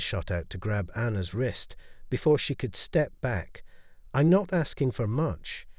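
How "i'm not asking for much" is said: lightly voiced through gritted teeth; words pushed through clenched teeth. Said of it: "she said through clenched teeth".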